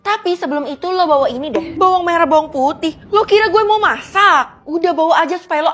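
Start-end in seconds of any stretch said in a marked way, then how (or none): 3.1-4.7 incredulous mock. Mocks being given onions.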